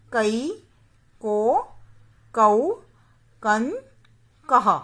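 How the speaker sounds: क, का, की... each syllable spoken slowly and clearly, with short and long vowels kept apart; बारह खड़ी को साफ़-साफ़ बोलना; reciting barakhadi. Shown as a demonstration. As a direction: drill each sound of क like a teacher to children. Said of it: "उसका उच्चारण करके बताऊंगी".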